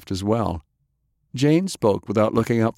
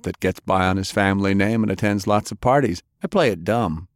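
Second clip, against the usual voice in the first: Frances; 3 semitones higher than usual. Acted. Frances tells his story.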